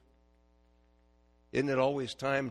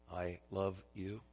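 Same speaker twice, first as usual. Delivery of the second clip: tender; 5 semitones lower, 6 dB quieter, slower than usual. Shown as a demonstration. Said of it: "Can you say them?".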